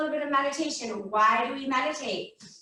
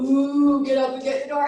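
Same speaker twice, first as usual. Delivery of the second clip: cow; 5 dB louder than usual. Acted. Cow in the backfield telling you about the doorbell, mooing. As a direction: moo it like a cow calling. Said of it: "the cow in the backfield is going".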